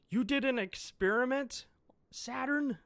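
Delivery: a high, harsh whisper of pure outrage; furious whisper. Acted. Vegapunk confronts Saturn about the experiment, furious whisper. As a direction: hiss the accusation, barely holding in the rage. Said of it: "Oh, Vegapunk is pissed".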